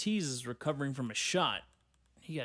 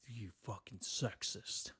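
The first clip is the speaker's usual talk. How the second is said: slow, softer put-on voice; mock accuser; 3 semitones lower, 8 dB quieter, slower than usual. Imagined critic scolding him over women's sports, slow mock voice.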